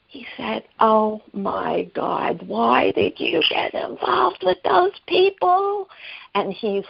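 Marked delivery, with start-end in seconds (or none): 0.8-5.9 mock yell. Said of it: "like, screaming".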